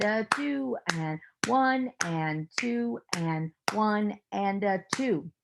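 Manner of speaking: slow, steady beat count; rhythmic counting. Shown as a demonstration. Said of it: "I'm gonna count it out".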